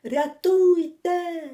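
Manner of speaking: a drowning man's slow frantic wail; narrated desperate shout for help; desperate cry for help. A narrator's reading. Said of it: "раптом отчайдушний крик".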